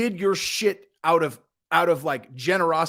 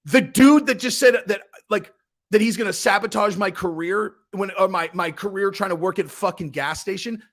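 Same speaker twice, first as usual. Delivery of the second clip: retold angry outburst; 5 semitones higher than usual. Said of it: "I'm like".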